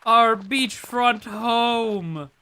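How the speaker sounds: high, loud thrilled exclaim; overjoyed cry, slow and loud; excited shout. Real, not acted. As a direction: shout it with delight. Excited over new house.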